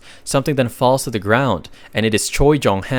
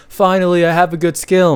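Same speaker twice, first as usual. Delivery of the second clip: excited; 7 semitones higher, 4 dB louder than usual. A narrator's reading. Recap character exults over new skill.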